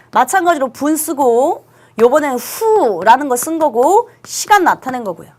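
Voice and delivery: usual speaking voice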